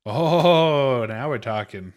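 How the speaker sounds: sudden burst of eager excitement; excited. Real, not acted. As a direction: hype it up like big news. Excited about online Mario Party.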